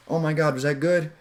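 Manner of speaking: mock approval-seeking question; seeking rapport. Shown as a demonstration. Coach mimicking a needy lover, approval-seeking lilt. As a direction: ask as if needing permission, GOOD lifted. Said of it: "It's asking permission".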